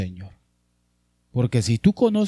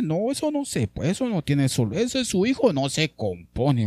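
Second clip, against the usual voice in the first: mock doubter; 3 semitones higher than usual. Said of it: "gente que dice".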